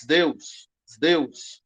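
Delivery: Zeus said as sdeus, with s before d; sdeus pronunciation. Shown as a demonstration. Teacher showing students the sigma-delta reading. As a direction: voice Zeus as sdeus, slow and clear. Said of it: "o nome de Zeus vai ser Zeus".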